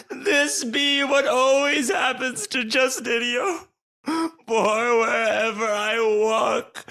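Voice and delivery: mock weeping lament, overdone; hammy stage sobbing. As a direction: wail at cruel fate, hammily. Justinio bemoans lost love.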